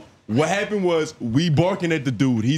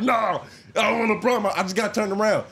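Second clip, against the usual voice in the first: mock yell; 6 semitones higher than usual. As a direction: mimic a man pleading from afar. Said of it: "He's, like, yelling".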